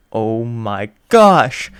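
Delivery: breathless whispered gasp of awe; awed whisper. Acted. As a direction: whisper it, starstruck. Excited fan whispering in awe.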